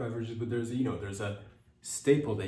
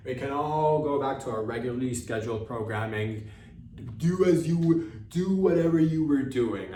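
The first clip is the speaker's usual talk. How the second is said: louder, higher mock announcement to the crowd; 3 semitones higher, 5 dB louder than usual. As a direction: address the street like a hero. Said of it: "I said".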